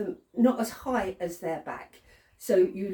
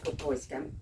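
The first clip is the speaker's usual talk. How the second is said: soft praise; 4 semitones lower, 7 dB quieter than usual. Shown as a demonstration. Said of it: "it's all happy and all nice".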